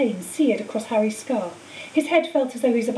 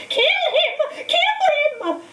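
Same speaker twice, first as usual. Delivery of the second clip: much higher, frantic yelling; yells; much slower than usual. A narrator's reading. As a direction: bellow the order again and again. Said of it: "Voldemort's yells of".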